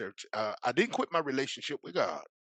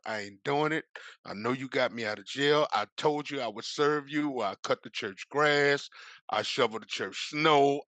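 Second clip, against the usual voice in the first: growing louder defiant protest; arguing with God; 3 semitones higher, 5 dB louder than usual. Retold or imitated. Refusing God's call to preach, building louder defiance. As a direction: push back harder with each line.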